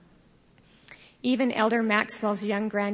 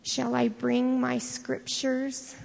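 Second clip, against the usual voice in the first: put-on sleepy small child, slowed; slow and drowsy, like a little boy; tired little voice; 4 semitones higher, slower than usual. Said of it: "a tired little voice".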